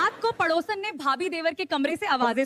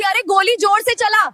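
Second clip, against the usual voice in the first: acted urgent egging-on; 4 semitones higher, 5 dB louder than usual. भाभी खेल में देवर को उकसाती.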